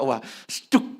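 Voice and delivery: ordinary talk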